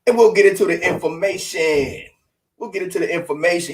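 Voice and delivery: talking around a cigarette; words round a lit cigarette; cigarette in mouth. Real, not acted. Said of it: "Let me have a smoke".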